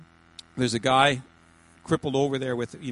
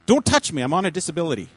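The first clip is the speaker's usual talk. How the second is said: acted protest from a redneck joke character; alarmed redneck; 9 dB louder than usual. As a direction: play a redneck warding off a hand. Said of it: "he's a bit of a redneck".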